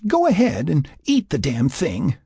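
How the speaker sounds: heated, exasperated surrender. Acted. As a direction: give up on him in annoyance. Sarah gives in crossly.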